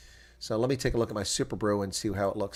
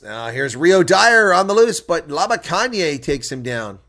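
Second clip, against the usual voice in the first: higher, louder, slow drawn call; live play-by-play; 6 semitones higher, 10 dB louder, slower than usual. Acted. Commentator calling Rio Dyer on the loose, slow excited call. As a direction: stretch the call as the runner breaks.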